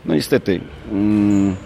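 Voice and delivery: mildly scornful retort, pitch often jumping up; mocking. Real, not acted. Coach answering accusations over the match date, mildly mocking. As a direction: push back with a touch of mockery, stressing each point. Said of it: "to ja też zaszydzę i powiem tak".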